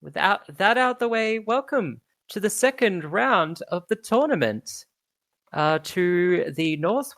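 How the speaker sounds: high, pompous announcer hushing a crowd; announcer Sundancer. Acted. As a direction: settle the rowdy crowd with authority.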